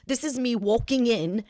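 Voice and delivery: attempted British accent, lightly put on; bad British accent. Retelling the London premiere to daughter, bad British accent. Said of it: "I don't do a great British accent".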